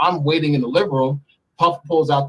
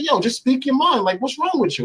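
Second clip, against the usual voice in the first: impatient demand; 11 semitones higher than usual. Retold or imitated. Retold pushing Puff to speak.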